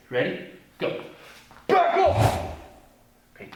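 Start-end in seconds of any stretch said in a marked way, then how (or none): 1.7-2.4 loud, high commanding shout; strong voice. Shown as a demonstration. Teacher models warning Doc Ock, loud commanding shout. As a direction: stop a villain cold with your voice. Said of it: "drill phrase".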